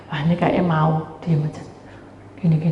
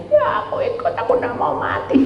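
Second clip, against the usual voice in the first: pet's reply. Retold or imitated. Voicing the pet answering.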